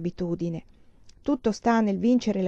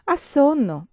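pitying voice; 8 semitones higher, 5 dB louder, slower than usual. A narrator's reading. Augusta pities her sleepy tortoise, tender pitying voice. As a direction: pity the sleepy tortoise like a child. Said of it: "spiegava Augusta con voce pietosa".

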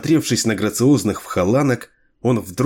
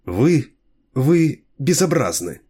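put-on disgusted young woman; 4 semitones higher, slower than usual. A narrator's reading. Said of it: "В голосе Ланиах звучало отвращение".

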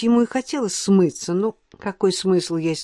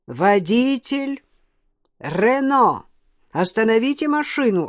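thunderous voice from above; 4 semitones higher than usual. Acted. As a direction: call down like thunder from the heavens. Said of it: "раздался громовой голос, словно бы с небес".

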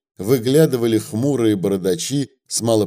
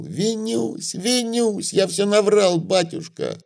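a much higher, piercing pleading wail; 9 semitones higher than usual. A narrator's reading. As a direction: shriek for his life, high and desperate. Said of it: "пронзительно завопил".

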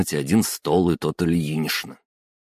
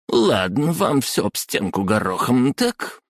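squeaky chiding woman; 6 semitones higher than usual. Acted. Clerk chides.

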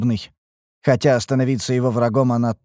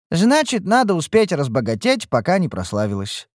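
carefree; 5 semitones higher than usual. Acted. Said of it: "беззаботно махнула рукой Ниуру".

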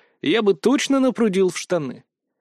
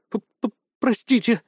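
higher, slow stammered squeak; stuttering scared girl apologising; frightened squeak; 7 semitones higher, slower than usual. A narrator's reading. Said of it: "испуганно пискнула".

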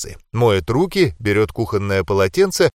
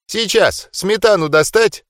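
higher, sweet grandma voice; 8 semitones higher than usual. Acted. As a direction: voice a loving granny offering food.

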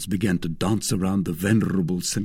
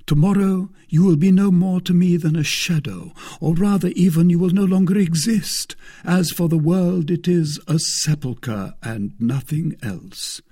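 high, loud renunciation of the world; solemn Aramis; 9 semitones higher, 5 dB louder than usual. Acted. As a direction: declaim it gravely, sinking at the close.

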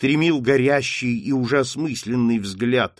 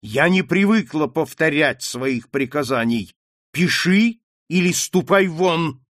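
imperious, slower final order; commanding tone; 4 semitones higher, 4 dB louder than usual. Acted. Mother repeating her order to her daughter, imperious. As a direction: speak like one never disobeyed. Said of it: "тот повелительный тон".

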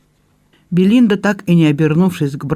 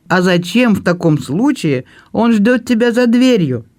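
plain reading voice

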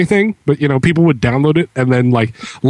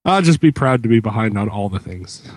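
usual speaking voice

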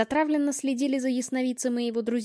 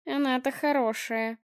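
spiteful smirk; 2 semitones higher than usual. Acted. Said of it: "зло усмехнулась чёрная старуха".

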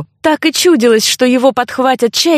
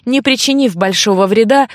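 plain reading voice

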